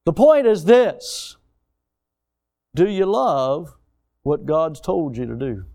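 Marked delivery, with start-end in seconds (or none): 2.8-5.7 slow, weighty question to the crowd; slow pointed question. Shown as a demonstration. Preacher slowly challenging his congregation with a question. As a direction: let each word sink in. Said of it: "repeated rhetorical question".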